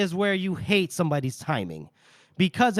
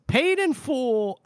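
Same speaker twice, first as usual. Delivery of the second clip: higher, very slow and final; cold satisfaction; 8 semitones higher, much slower than usual. Acted. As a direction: drawl it out with grim relish. Casca after the hanging.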